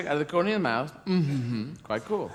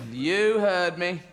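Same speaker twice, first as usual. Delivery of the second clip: slow, defiant sulky reply; lightly voiced surly bird standing its ground; sullen mynah bird; much slower than usual. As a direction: draw it out insolently. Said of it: "They get sullen".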